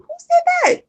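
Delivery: high, startled question; shocked disbelief. Retold or imitated. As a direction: ask it as if you can't believe what you heard. Retelling a shocked reaction.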